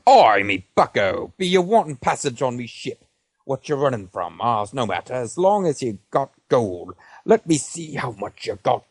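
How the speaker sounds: lightly voiced slow pirate captain; drunk captain. Narrator voices the drunk captain asking the player about gold. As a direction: slur it like a tipsy sea captain. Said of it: "drunkenly says".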